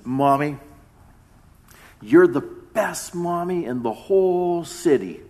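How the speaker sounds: lightly imitated four-year-old, drawn out; little boy. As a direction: slowly praise mom like a small boy. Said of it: "he looks at his mommy and says".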